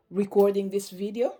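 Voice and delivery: a hiccup jolts the words; hiccuping while speaking. Real, not acted. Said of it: "sorry for my hiccups while I'm speaking".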